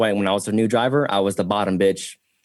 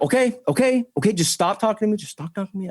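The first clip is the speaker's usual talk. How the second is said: mock pleading self; 10 semitones higher, faster than usual. His pleading reply, retold.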